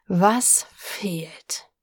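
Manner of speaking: growled whisper. Acted. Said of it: "seine Stimme glich einem Knurren".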